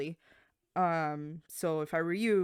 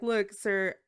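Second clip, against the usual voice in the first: firm annoyed; 4 semitones higher, 4 dB louder than usual. Retold or imitated. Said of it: "I was already annoyed".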